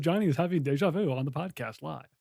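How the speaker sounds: hammed-up exclusive live bulletin; mock news announcer. Announcing co-host's live deja vu, mock news announcer.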